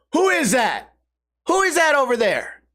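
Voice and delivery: high-pitched retold yell across the street; mock yelling across the street. Tweakers across the street calling at a stranger, mock yell. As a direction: call out across the street, hammed up. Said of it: "start yelling across".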